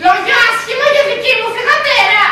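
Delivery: affronted, incredulous question; indignant disbelief. Acted. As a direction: throw the rumour back as a question. Mother hears gossip about her daughter.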